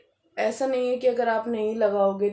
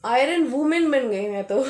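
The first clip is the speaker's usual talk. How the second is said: amused; 3 semitones higher, 6 dB louder than usual. Real, not acted. Amused punchline, breaking into laughter.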